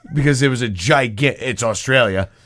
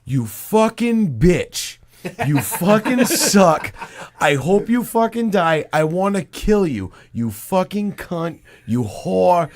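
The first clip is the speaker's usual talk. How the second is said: higher, slow mock rant; imitated furious yelling; 5 semitones higher, slower than usual. Sports fan yelling at the Patriots, retold furious rant. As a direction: hammer out each insult in a mock yell. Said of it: "he was yelling at the Patriots".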